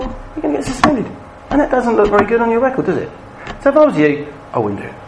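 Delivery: reasonable, reassuring advice to the pupils; understated calm version of the same telling-off; calm friendly warning. Retold or imitated. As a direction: talk them round gently, man to man. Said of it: "exactly the same with a completely different tone".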